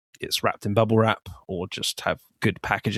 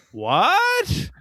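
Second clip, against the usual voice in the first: baffled what. Retold or imitated. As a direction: fire it back, baffled. Frankenstein's baffled reply in quote.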